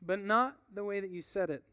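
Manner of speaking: calm him down gently; gentle. Acted. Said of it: "with a gentleness".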